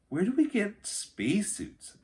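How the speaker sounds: put-on high, eager little girl voice; Annie voice. A narrator's reading. Narrator reading aloud gives Annie a high eager voice. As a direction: voice Annie as a bright, eager kid.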